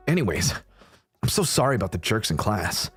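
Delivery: earnest anime fan in a hero's voice, lightly done; Snake. Acted. Snake confides in the new girl about anime, lightly voiced. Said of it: "let me get into the snake voice".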